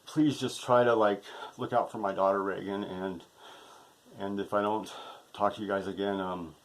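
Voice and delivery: low, soft, halting plea; subdued, emotional parting words; sad farewell. Real, not acted. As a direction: say a heavy-hearted goodbye with long pauses.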